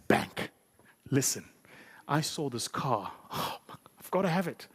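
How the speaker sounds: mock whine for a car; pleading customer. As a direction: beg the bank for the car, half-whining.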